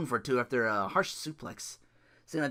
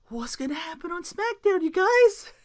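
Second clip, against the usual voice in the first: playful teaser; 14 semitones higher than usual. Real, not acted. Teasing the audience.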